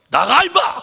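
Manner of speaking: high, loud rough yell; angry cursing shout. Retold or imitated. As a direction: bark the insult at the spirit. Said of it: "욕을 했어요". (욕하며 버럭 지르는 고함)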